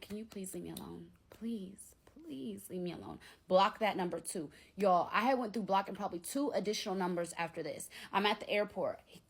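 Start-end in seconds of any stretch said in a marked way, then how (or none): 0.0-3.2 soft, begging, worn-out plea; whispered please, please leave me alone; pleading whisper. Retold or imitated. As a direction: beg him quietly to stop. Begging ex to stop.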